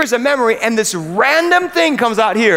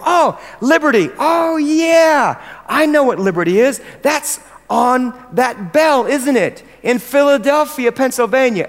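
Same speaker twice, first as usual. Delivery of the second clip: eager chatter; 3 semitones higher than usual. Pretend. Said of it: "they go".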